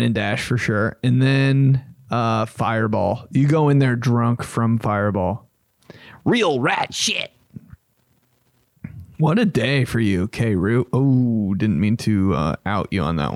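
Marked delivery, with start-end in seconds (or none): 6.3-7.3 whispered aside. Real, not acted. Whispered aside about rat food.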